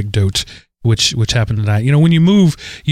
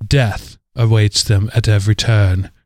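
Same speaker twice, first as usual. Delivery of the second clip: posh English narrator; slower than usual. Retold or imitated. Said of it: "posh English woman saying".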